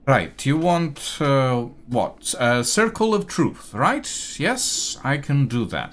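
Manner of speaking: a put-upon clerk fed up with demands; an overworked elf snapping back at the councilman; fussy elf scribe. Acted. Elna confirms the spell.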